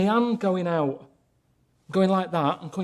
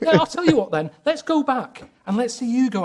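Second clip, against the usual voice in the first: heated challenge; 7 semitones higher, 3 dB louder than usual. Real, not acted.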